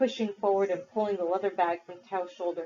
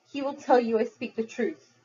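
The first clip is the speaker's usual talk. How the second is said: pleading; 4 semitones higher than usual. Acted. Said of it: "he pleaded".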